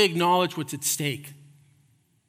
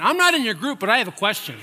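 raised, higher voice calling out a question; calling out to the guide; 5 semitones higher, 4 dB louder, faster than usual. Pretend. Man butting into a tour group, calling out loud. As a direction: call out over the crowd with a half laugh. Imagines raising hand on tour.

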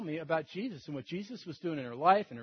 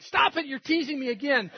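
higher-pitched mock protest; imitated upset girl; 6 semitones higher than usual. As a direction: act out her pleading objection.

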